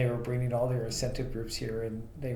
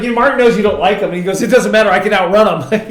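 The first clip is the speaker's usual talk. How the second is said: retold joke, laughing; 8 semitones higher, 17 dB louder than usual. Retelling CEO joke amid laughter.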